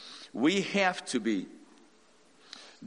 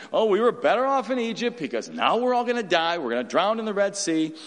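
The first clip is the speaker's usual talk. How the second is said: whiny retold grumble, a touch higher; mock complaining; 4 semitones higher, 3 dB louder than usual. Preacher mimicking Israelites whining at the Red Sea, mock complaint. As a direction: mimic the grumbling crowd, lightly. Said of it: "They murmured and complained".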